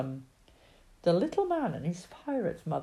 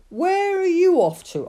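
high, loud farmer's question; loud, drawn-up inquiry; calling out a question; 11 semitones higher, 9 dB louder than usual. Acted. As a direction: hail a passer-by, voice lifted. Farmer calls to passing man.

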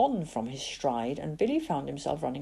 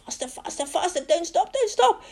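strained whisper rising to a cry; through gritted teeth; 12 semitones higher than usual. Acted. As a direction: push yourself on, teeth clenched. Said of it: "whispering through gritted teeth".

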